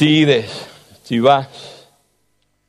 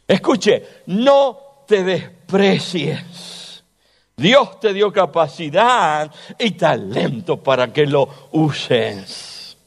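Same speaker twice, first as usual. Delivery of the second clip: slow preaching; 2 semitones higher, slower than usual. Acted. Preaches to the congregation.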